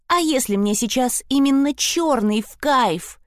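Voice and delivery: a hint of defiance; defiant. Melanie defying Sprotte over the black dress. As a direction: toss the question back provocatively. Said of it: "вызывающе бросила Мелани".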